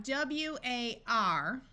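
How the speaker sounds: slow, letter by letter; spelled W A R. Shown as a demonstration. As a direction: spell W A R out for the class. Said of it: "this sound is going to be war".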